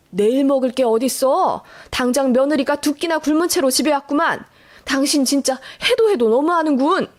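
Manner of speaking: lightly voiced stern scolding. Father-in-law scolding his wife for starving daughter-in-law, mildly stern. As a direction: rebuke in mild exasperation. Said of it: "처음 듣는 엄한 목소리로".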